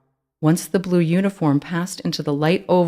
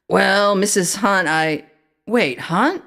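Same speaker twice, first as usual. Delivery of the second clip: asked brightly; 5 semitones higher, slower than usual. A narrator's reading. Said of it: "the officer asked brightly".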